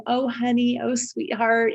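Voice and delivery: put-on a touch of Southern hospitality in the accent. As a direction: coo it like Southern relatives. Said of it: "lovely Southern accents and".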